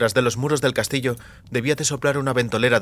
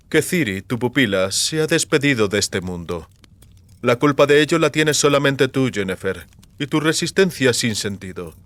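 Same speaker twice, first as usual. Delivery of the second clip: feigned regret turning accusing; a hint of cold sorcerer; Vilgefortz's voice. Vilgefortz tells the captive sorceress the bad news, feigned sorrow.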